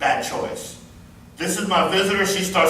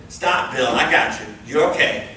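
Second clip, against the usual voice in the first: lower-pitched, steadying reassurance to a patient; calm reassurance; 4 semitones lower than usual. Pretend. Nurse steadies an agitated patient, calm and reassuring. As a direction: talk the patient down, firm and low.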